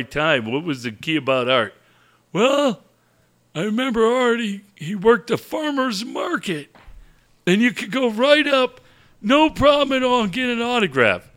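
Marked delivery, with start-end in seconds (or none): 2.3-11.3 a hint of a creaky old fan calling in; old man phoning a coach's show, lightly voiced; old caller. Old caller voice on radio bit.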